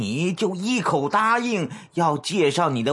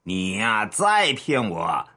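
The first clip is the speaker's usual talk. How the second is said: menacing warning; 4 semitones lower than usual. Acted. Boss threatening his underling's head, menacing warning. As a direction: warn him with measured menace.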